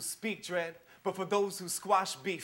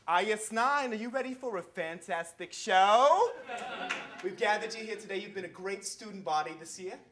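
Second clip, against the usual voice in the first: a light school principal scolding an assembly; prim, tight-lipped hall-monitor calm; stern principal; 5 dB quieter than usual. Acted.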